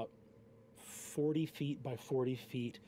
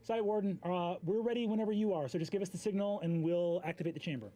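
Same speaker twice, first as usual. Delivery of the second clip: magically projected voice; 5 semitones higher, faster than usual. Acted. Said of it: "projects a voice using magic into the space and says".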